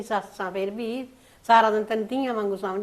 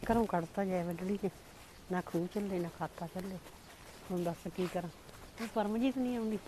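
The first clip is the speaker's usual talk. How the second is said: tearful lament; 7 dB quieter than usual. Acted. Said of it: "ਫਿਰ ਰੋਂਦੀ ਕਾਹਤੋਂ ਆ ਬੇਬੇ".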